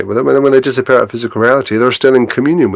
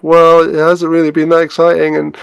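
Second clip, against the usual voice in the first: worried parent; 7 semitones higher than usual. Acted. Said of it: "And she's like".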